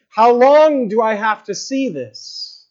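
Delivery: slow, aching plea; anguished plea. Retold or imitated. Prophet on his knees asking God, weary plea. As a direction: drag out the question in weary anguish. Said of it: "crying out to God".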